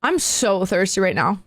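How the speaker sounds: slow, low creepy man; eerie stranger. Retold or imitated. Man licking his lips at caller, eerie. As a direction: draw it out low, imitating a fixated man. Repeats the unblinking man's line.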